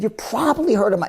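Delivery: confiding pitch with intrigue. Shown as a demonstration. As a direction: draw them in with mystery. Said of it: "and I lower my voice".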